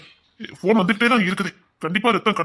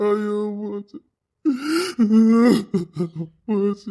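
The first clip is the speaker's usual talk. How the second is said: drawn-out moan of loss; despairing lament; slower than usual. Acted. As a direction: lament as if all is lost. Relative despairing over the delivery.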